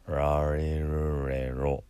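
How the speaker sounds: "ラリルレロ" with curled-tongue R, slow and run together; 舌を巻くR. Shown as a demonstration. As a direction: curl the tongue back through all of "ラリルレロ". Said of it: "Rの発音は舌を巻いて". (「ラリルレロ」を巻き舌のRでゆっくり)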